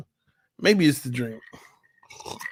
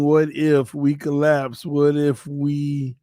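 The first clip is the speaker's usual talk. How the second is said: slow quoted worry; much slower than usual. Retold or imitated. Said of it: "you keep saying".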